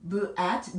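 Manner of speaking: "B at" split into onset and short-vowel rhyme; sounded out. Shown as a demonstration. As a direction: pause between "B" and short "at". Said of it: "bat라고 발음되던 것이". ("B"와 "at"를 끊어서)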